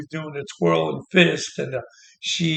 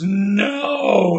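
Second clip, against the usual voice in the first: a higher, louder shouted refusal; mock shout; 5 semitones higher, 4 dB louder than usual. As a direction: throw it out like a crowd rejecting. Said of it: "And everybody goes".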